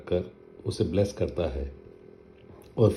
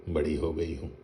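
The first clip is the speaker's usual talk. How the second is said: बड़ी हो गई हूँ echoed softer, gently mocking; teasing mimicry; 2 semitones lower, 5 dB quieter than usual. Father teases his daughter by repeating her claim, softly mocking. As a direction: toss her words back at her fondly.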